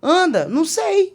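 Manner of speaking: high, loud retold helplessness; exasperação encenada. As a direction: act out an exasperated back-and-forth, voice jumping up. Encena discussão sobre como andar. (desespero encenado, agudo e forte)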